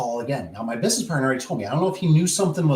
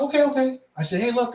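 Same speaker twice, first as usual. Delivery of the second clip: exasperated conceding; 11 semitones higher than usual. Retold or imitated. Cuts in to placate the manager.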